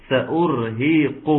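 سأرهقه drawn out slowly; slow tajweed demo of سأرهقه; slow recitation demo. Shown as a demonstration. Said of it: "هتتحول مني لمد طبيعي".

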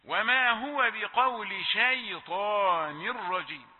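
slow chant with شيطان given a thick ش; recitation with heavy shīn. Shown as a demonstration. Teacher showing the heavy shīn mistake in شيطان. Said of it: "الشين تخينة".

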